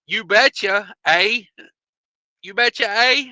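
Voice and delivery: playful fake Canadian accent; mock Canadian accent. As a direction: lift the eh in a joke Canadian accent. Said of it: "hit 'em with that Canadian English".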